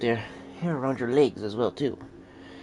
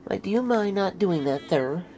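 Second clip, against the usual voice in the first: mock indignant; 8 semitones higher, slower than usual. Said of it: "I'm like".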